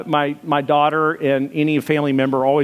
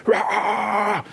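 drawn-out mock metal growl; imitated screamo scream; 5 semitones higher than usual. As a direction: imitate a screamo singer, held back. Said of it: "He'd be screaming all the time".

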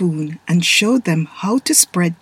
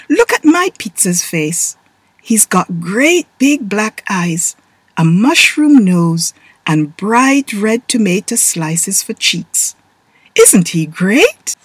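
put-on proud boy; 4 dB louder, slower than usual. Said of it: "Taylor said to his little sisters".

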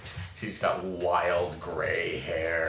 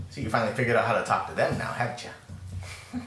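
a hint of a teasing old teacher; old woman mentor; 2 semitones higher than usual. Mentor checking on pupil's tree talk, lightly voiced old woman. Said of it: "Your, your mentor".

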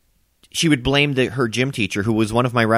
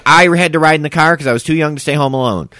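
angry; 5 semitones higher, 6 dB louder than usual. Real, not acted. Angry rant at his sister.

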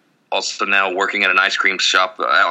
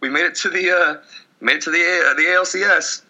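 high, mock-chirpy fan voice; sarcastic fan griping about merch costs, high and sing-song; sarcastic cheer; 8 semitones higher than usual. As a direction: fake enthusiasm about buying more shirts. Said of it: "It's like".

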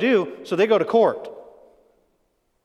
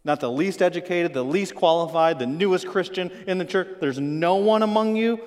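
sarcastic. Acted. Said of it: "Here's the sarcasm".

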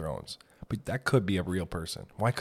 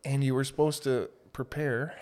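bubble in throat; 4 semitones higher than usual. Real, not acted. Recalling an audition workshop, real bubble in the throat. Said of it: "Little bubble in the throat there".

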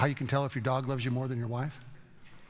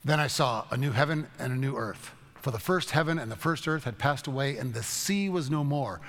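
scripture reading. Acted. Reads scripture.

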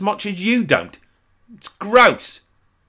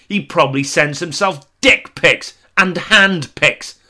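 mock outraged audience; 5 semitones higher, 3 dB louder than usual. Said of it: "the audience say".

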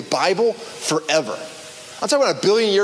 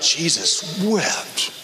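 slow solemn reading; 3 semitones lower, much slower than usual. Retold or imitated. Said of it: "you're like".

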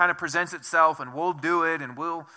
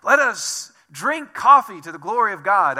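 mock eager welcome; 4 semitones higher, 8 dB louder than usual. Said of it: "I did not say".

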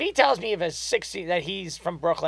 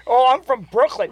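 mocking Cap; 7 semitones higher, 6 dB louder than usual. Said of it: "'Cause if I hear".

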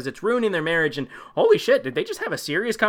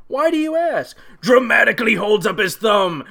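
high, put-on suspicious John; mock English John; 5 semitones higher, 4 dB louder than usual. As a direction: ask it coyly, pitched way up.

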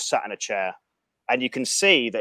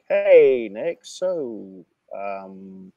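playing it cool; 4 dB louder, much slower than usual. Visitor greeting the other man, playing it cool. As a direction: put on an overly casual hello. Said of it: "Right, I've gotta play it cool".

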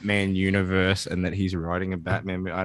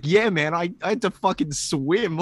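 mock weary Batman, higher pitched; Batman quote; 8 semitones higher than usual. Batman telling Aquaman he had to swim, mock weary. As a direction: act out Batman, exhausted from the swim. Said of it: "And he's like".

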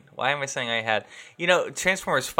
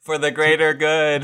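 sneering panto villain; 3 semitones higher, 8 dB louder, slower than usual. Acted. Villain catchphrase, played up.

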